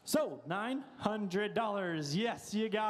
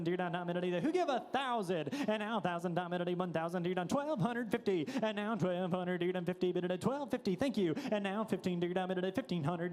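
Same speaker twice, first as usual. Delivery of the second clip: frantic trading floor shouting; faster than usual. Acted. Live auction bid calling.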